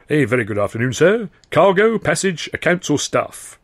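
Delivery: bright high doorman's greeting; a doorman reciting his options. A narrator's reading. Doorman greeting a visitor, high and sing-song.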